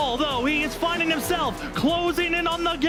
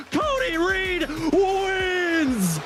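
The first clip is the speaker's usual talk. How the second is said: slow drawn-out winner shout; excited win call; much slower than usual. Real, not acted. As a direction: stretch out the winner's name. Race winner called.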